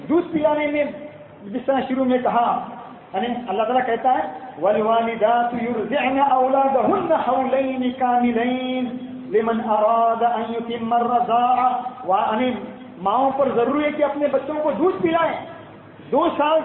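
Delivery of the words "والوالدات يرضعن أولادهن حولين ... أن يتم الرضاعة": slow, chanted Arabic recitation; Quran recitation. Acted. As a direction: intone the verse slowly and solemnly. Quran verse recited in sermon.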